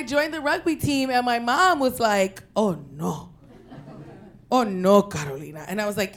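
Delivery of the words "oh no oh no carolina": worried mom. Retold or imitated. Mom's worried reaction.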